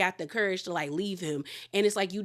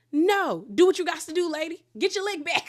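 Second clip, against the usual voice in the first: excited cheering; 8 semitones higher, 4 dB louder than usual. Real, not acted. Cheering on a reality show fight.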